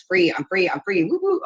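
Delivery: squealing with joy, pitch leaping up; excited cheer. Real, not acted. Streamer celebrating her freed account, excited whoop. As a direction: whoop it out like you just got free.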